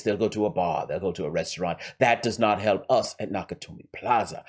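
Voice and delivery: lightly voiced scheming villain with a rough accent; Hans. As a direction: lay out the heist deliberately, in character. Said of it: "Let's go back to Hans".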